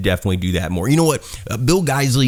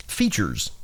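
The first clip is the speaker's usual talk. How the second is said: odd delivery; 6 dB quieter than usual. Real, not acted. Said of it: "Why did I say it like that".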